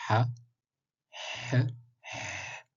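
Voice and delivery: Ha then a bare breathy H with no vowel; short vowel sounds. Shown as a demonstration. Teaching the class the bare H without a vowel. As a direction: push out H, then H alone, no vowel. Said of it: "rappel pour les voyelles brèves".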